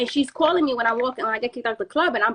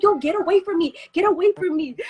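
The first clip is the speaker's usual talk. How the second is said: raised, higher mock irritation; irritated brush-off; 6 semitones higher, 3 dB louder than usual. Storyteller replaying brushing off her worried friend, irritated brush-off. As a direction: re-enact snapping at someone to back off. Acts pushing friend away.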